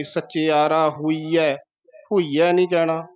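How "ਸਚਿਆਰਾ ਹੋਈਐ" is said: slow ਸਚਿਆਰਾ with a firm doubled ch; slightly tightened. Shown as a demonstration. Teacher asking for tightness, slow firm articulation. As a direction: press the ch in ਸਚਿਆਰਾ a little. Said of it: "ਥੋੜ੍ਹਾ ਜਿਹਾ ਕੱਸ ਕੇ".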